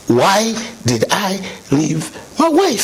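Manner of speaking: slow, weighty "Why did I leave my wife?"; slow, earnest self-question; slow emphatic repeat. Retold or imitated. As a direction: let each word of "Why did I leave my wife?" land slowly. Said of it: "That was the conviction".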